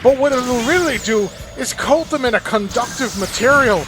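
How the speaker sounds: a hint of a Scottish engineer proudly pitching his mobile armor. Engineer describing his new mobile armor in a light Scottish accent. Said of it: "I made the engineer sound Scottish".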